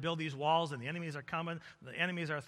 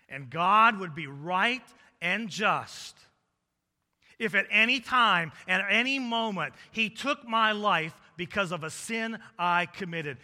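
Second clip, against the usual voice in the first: loud, weighty sermon delivery; emphatic preaching; 4 semitones higher, 10 dB louder than usual. Real, not acted. Preacher telling congregation God would be right, emphatic preaching. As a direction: drive the point home loudly.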